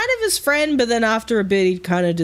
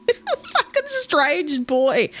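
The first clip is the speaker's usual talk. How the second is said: laughing; 11 semitones higher, slower than usual. Real, not acted. Laughing about the weird dog.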